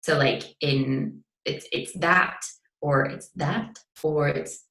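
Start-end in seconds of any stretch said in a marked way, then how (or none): 2.0-2.4 first of three vowel shadings on THAT; vowel variant demo. Shown as a demonstration. Showing a listener one way THAT can sound, vowel demo. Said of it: "that one sound can sound like, like, three different ways". 3.3-3.8 second, contrasting vowel shading on THAT; vowel variant demo. Shown as a demonstration. Showing a listener another way THAT can sound, vowel demo. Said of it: "that one sound can sound like, like, three different ways".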